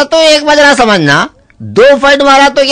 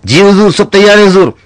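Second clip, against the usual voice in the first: much lower, humble reply; meek servant; 5 semitones lower than usual. Acted. Servant answering his master, low and meek.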